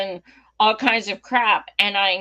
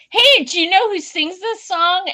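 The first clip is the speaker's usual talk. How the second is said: high, pointed sarcasm; sweetly snide setup; sarcastic question; 9 semitones higher, 5 dB louder than usual. Retold or imitated. Mocking sarcastic question to loud fan.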